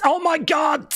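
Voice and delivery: high-pitched squealed exclamation; mock excitement. Streamer reacting to the countdown, high excited squeal. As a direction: squeal it in hammed-up thrill.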